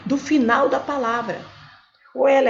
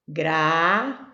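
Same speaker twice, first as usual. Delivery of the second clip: syllable by syllable; 5 semitones lower than usual. Shown as a demonstration. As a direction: hold each syllable of Gravíssima, pausing between. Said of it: "Eu vou separar". (Gravíssima separada em sílabas, com pausas)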